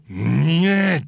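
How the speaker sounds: loud, high mock delight; hearty approval. Producer approves a finished model, loud imitated enthusiasm. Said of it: "っていう時と".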